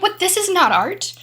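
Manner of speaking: mock frustrated artist complaining to herself. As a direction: whine that this isn't art. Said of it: "And they're like".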